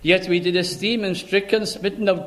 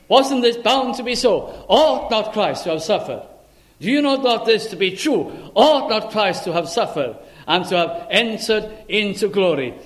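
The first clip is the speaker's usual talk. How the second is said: emphatic challenge; 3 semitones higher than usual. Acted. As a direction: press the question on them. Jesus' challenge voiced again.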